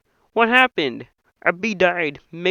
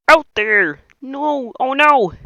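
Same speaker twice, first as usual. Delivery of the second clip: shouting; 5 semitones higher, 5 dB louder, slower than usual. Acted. Frantic argument about going out.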